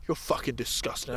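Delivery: low, soft imitated insult; muttered disgust. Man who couldn't help it, muttered disgust. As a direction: imitate contempt slipping out under the breath.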